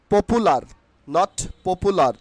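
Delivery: "popular" said po-pu-lar, plain p and u; the wrong "popular", short "pu" without a y-glide; common mispronunciation. Shown as a demonstration. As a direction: say "popular" as po-pu-lar with a sounded final r. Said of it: "আমরা ভুল উচ্চারণ করি".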